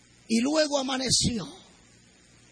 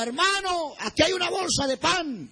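higher-pitched mock shout, volume held back; retold calling out; 4 semitones higher than usual. Girl calling to an injured man, retold calling out. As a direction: call out a find, lightly acted. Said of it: "me gritó y me dijo".

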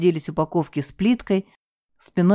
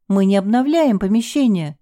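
exclaim; 4 semitones higher, 3 dB louder than usual. Acted. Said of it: "воскликнула Елена".

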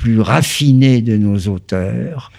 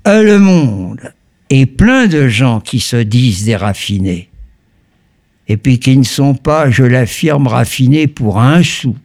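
Parisian accent. Shown as a demonstration. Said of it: "l'accent parisien".

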